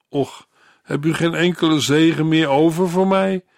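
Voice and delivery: a touch of read-aloud begging; pleading. A narrator's reading. Esau pleads with his father Isaac, mildly begging. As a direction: ask it as an understated plea. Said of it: "smeekte hij zijn vader".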